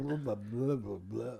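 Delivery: mock Dutch gibberish, spluttered; sputtering parody of spoken Dutch; hucking, spitting Dutch. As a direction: imitate throaty Dutch with nonsense syllables. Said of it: "It's hucking and spitting".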